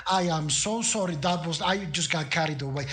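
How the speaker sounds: lightly voiced, over-polite lich gushing on; gushing apologetic lich. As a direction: apologise profusely, tripping over your own excitement. Lich gushes apologies and excitement.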